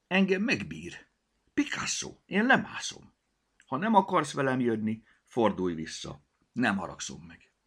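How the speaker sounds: put-on a plucky girl telling the cat she will go down; brave little girl. Mimi announces she climbs down.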